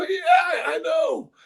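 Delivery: high whiny cracking wail; male whiny voice. Retold or imitated. Coach whining to the translator after his promise. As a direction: whine like a man who got caught. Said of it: "the male whiny voice".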